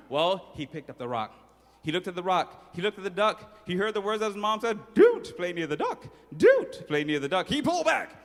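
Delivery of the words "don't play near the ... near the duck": louder mother's warning; mom's warning. Retold or imitated. Mother warning her son again, louder and firm. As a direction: repeat mom's warning firmly.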